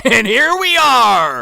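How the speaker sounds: loud, high, drawn-out proclamation; slow, hammed-up holler; mock triumphant shout. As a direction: announce it like a grand reveal. Mock announcement of worst movie.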